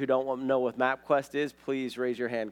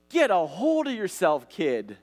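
imitated wife's reprimand, pitched up then dropping; mildly mock-scold in a higher voice; 4 semitones higher than usual. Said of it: "my wife was like".

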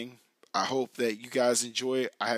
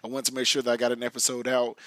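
raspy, worn-out hoarse voice; talking through a half-lost voice; 3 dB louder than usual. Real, not acted. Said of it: "hopefully my voice comes back".

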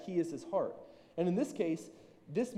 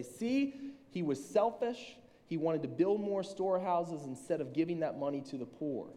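mock pointed accusation. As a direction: voice a critic making a point. Voicing people with a political reading.

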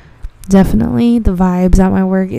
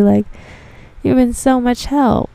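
lightly voiced doting customer, pitched up; mildly hammed-up fond praise; grateful customer; 5 semitones higher than usual. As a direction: gush sweetly at the helper. Same grateful customer, quote resumes.

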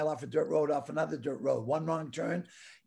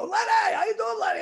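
much higher, loud greeting shout; mock calling out; 4 dB louder than usual. Retelling neighbours shouting hello at the gurney, mock calling out. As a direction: hail him across the yard.

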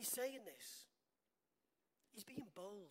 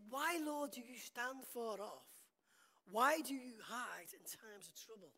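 crying out; 6 dB louder, slower than usual. Acted. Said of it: "he's crying out to God".

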